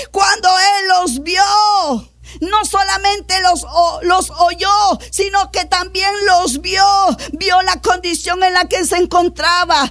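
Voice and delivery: insistent, sustained pulpit fervour; impassioned preaching. Acted. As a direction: preach it with rising urgency. Preaches at full force.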